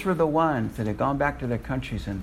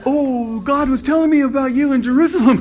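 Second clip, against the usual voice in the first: much higher and louder, laughing in disbelief; amazed exclamation; 14 semitones higher, 8 dB louder than usual. Retold or imitated. Preacher telling congregation his shocked reaction, laughing excitedly. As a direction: blurt it out, overjoyed and astonished. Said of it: "And I went".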